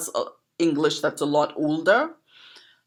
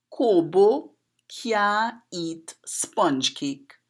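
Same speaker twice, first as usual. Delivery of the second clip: slow, careful proverb in Creole, every word spaced; slow Trini Creole recital; 4 semitones higher, much slower than usual. Shown as a demonstration. Poet teaching viewers a proverb, slow Creole delivery. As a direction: recite it slowly in Trini dialect. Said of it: "it goes like this".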